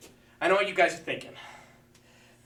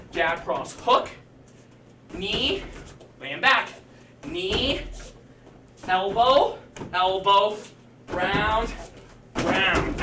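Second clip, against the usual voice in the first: steady calling of each strike; boxing coach calling combos; much slower than usual. Shown as a demonstration. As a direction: coach talking through the combo. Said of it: "If you don't have your pad drill".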